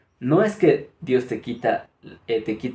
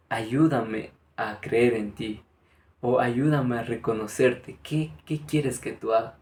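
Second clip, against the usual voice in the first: slow, soft humble plea to God; humble prayer; 4 dB quieter, slower than usual. Shown as a demonstration. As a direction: pray it gently with eyes closed. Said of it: "cierra los ojos y dile a Dios". (oración lenta y humilde)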